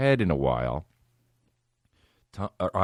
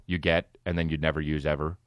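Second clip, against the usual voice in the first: ordinary talk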